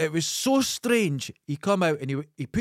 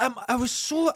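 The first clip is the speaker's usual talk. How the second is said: ordinary talk, nothing marked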